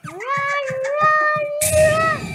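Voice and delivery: high panicked run run; urgent high cry while fleeing; being chased. Real, not acted. Fleeing monster.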